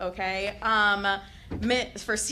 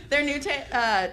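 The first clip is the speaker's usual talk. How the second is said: normal talking voice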